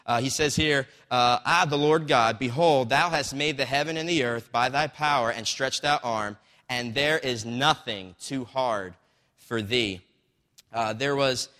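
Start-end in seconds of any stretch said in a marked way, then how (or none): 1.5-10.0 loud, declamatory Bible verse reading; emphatic pulpit reading; scripture reading. Acted. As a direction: proclaim the verse, slowing toward the end. Reads scripture aloud to congregation.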